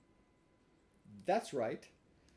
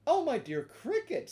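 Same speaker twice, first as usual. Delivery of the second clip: polite Pinocchio; 11 semitones higher, 7 dB louder than usual. Acted. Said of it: "bowing politely".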